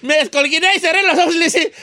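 ordinary talk

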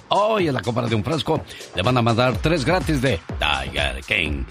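upbeat ad read; infomercial. Acted. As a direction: sell it, read the number. Infomercial pitch with phone number.

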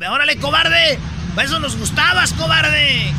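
high, loud imitated taunt; hammed-up angry heckle; mock jeering shout. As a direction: yell it after someone running away. Acts women yelling at fleeing man.

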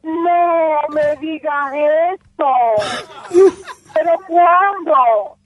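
slow, stunned disbelief; real shock. Real, not acted. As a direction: she can't believe the news. Friend hears of death. (incredulidad real, lenta)

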